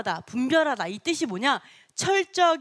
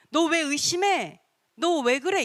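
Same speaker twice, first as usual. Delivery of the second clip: scolding; 5 semitones higher, slower than usual. Acted. Acts out rebuking a doubter.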